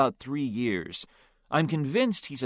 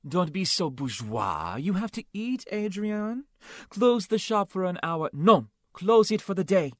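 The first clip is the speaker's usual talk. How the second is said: higher, insistent, theatrical; flamboyant café owner coaxing; 7 semitones higher than usual. Acted. Claude urging Adrian to close shop, high and insistent. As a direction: sweep aside his excuses grandly.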